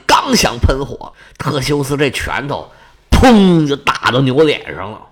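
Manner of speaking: plain reading voice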